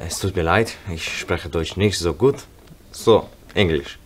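ordinary talk, nothing marked

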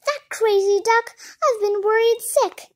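high, loud outburst; worked-up yell. A narrator's reading. Hodges on the phone after worrying, high yell. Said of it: "Hodges screamed".

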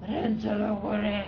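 slow, loud stick-up shout; loud slow command. Pretend. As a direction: bark it slowly like a robber. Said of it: "No to nie wiem jak".

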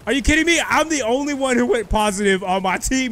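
high-pitched, excited crowing; triumphant disbelief. Real, not acted. Gamer boasting of best score on team, triumphant. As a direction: crow in triumph, climbing to a high finish.

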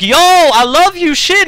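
mock excited self. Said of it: "And I'm like".

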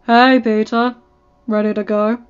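calling out. A narrator's reading. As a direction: call across the hall to the kid. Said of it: "Tony called out".

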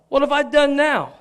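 a hint of put-upon little brother; younger brother. The speaker answering his oldest brother, lightly acted younger-brother protest. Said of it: "as younger brother style".

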